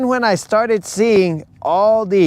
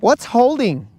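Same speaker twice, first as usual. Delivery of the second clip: higher naive questioning; clueless fan voice; 5 semitones higher than usual. Retold or imitated. Mocking a Swiftie asking about football, higher naive voice. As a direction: ask innocently, missing the point.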